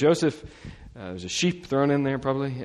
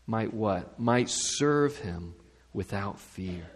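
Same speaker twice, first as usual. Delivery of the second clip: scripture reading. Acted. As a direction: read it aloud with reverence. Reads Zechariah's song from Luke.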